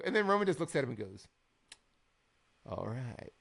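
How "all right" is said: lightly mocked self-serious promo; mock-poetic trash talk. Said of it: "both trying to be so poetic".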